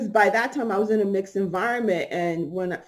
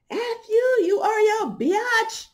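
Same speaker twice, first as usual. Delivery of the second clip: angry; 12 semitones higher, slower than usual. Retold or imitated. Woman cursing her out.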